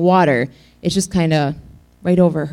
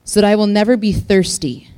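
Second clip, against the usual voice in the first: sarcastic; 3 semitones higher than usual. Retold or imitated. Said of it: "sarcastic here".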